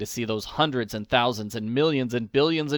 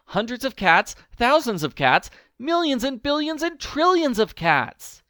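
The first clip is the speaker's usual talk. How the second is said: much higher, louder and aghast; exasperated old woman; 11 semitones higher, 4 dB louder than usual. A narrator's reading. Old woman scolding husband about the cats, aghast. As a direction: scold in disbelief. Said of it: "she cried".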